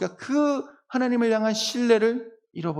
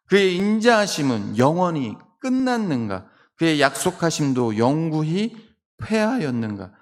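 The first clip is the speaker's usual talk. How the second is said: slow, emphatic scripture reading; solemn recital, stretching the phrases; 3 dB louder than usual. Acted. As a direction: read the psalm aloud with drawn-out weight.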